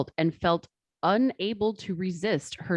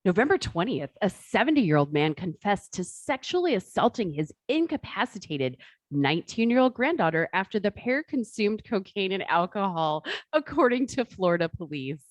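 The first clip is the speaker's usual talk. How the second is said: customer service voice. Pretend. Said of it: "Customer service voice?".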